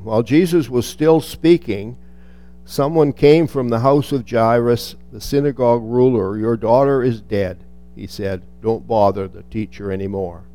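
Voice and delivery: measured Bible reading; scripture reading. Acted. Preacher reading Luke to the congregation, measured and reverent. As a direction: read the passage with reverence. Reads the Gospel passage aloud.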